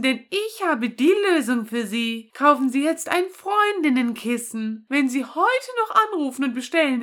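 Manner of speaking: chipper 1950s ad. Pretend. Infomercial voice in game.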